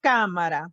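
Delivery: cámara with a clear CÁ; stress on first syllable. Shown as a demonstration. Teacher repeating cámara with natural stress. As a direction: lightly stress the start of Cámara. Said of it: "I accented the A".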